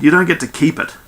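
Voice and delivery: insist, with the voice lifting; protesting. A narrator's reading. Skell telling crew the planet isn't theirs, protesting. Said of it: "Skell protested".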